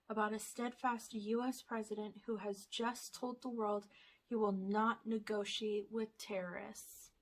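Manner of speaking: reading a movie blurb like a trailer; lightly dramatic back-cover read. Acted. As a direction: announce it like a trailer voice. Reads movie blurb aloud.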